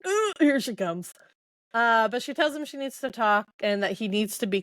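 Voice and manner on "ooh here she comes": higher mock-dread inner voice of Rain; dreading groan. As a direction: voice Rain cringing as she walks up. Rain dreading her approach.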